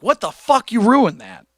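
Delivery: mock-indignant protest; mock outrage. Voices outraged viewers.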